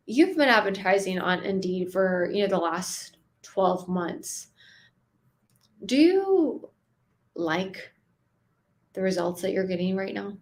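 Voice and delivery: unhurried, let them think; calm with pauses. Shown as a demonstration. Coach asks about Indeed ads, pausing calmly. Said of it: "I need them to sit with themselves and think".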